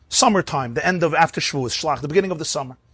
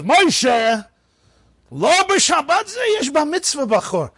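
gabbai in Hebrew; 12 semitones higher, slower than usual. Retold or imitated. Gabbai confronts old reader.

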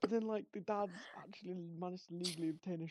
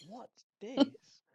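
higher, louder puzzled question; mock bafflement; 8 semitones higher, 9 dB louder than usual. Pupil spots strange textbook image, mock bafflement. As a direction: blurt it in put-on astonishment.

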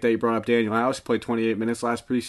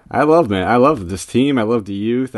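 excited; 7 dB louder than usual. Real, not acted. Gushing fanboy about team.

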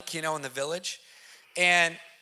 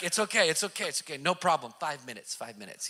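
calm reassurance, dropping much softer as it goes; cool and collected; 5 semitones lower, 6 dB quieter, faster than usual. Retold or imitated. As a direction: soothe him, fading to a hush on the last five minutes. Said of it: "He's just cool and collected".

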